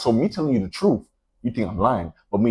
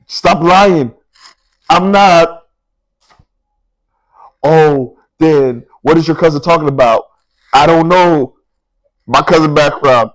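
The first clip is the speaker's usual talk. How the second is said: heated quarrel; 4 semitones higher, 6 dB louder than usual. Retold or imitated. Acted back-and-forth quarrel.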